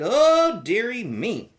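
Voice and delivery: put-on a fretting old woman's sigh. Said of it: "the old woman said".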